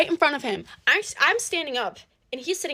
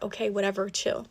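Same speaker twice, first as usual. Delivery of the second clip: quieter, bored mock shrug of a voice; imitating nonchalant boyfriend; 4 semitones lower, 7 dB quieter than usual. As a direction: play the boyfriend who couldn't care less, softly. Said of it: "he's being so nonchalant about it".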